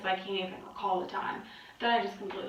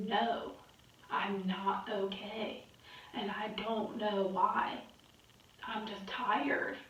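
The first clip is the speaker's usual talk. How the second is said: slow, subdued retold confession; weary admission; slower than usual. Wife answering husband at the dinner table, weary and subdued. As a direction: drag it out, tired and a little defeated.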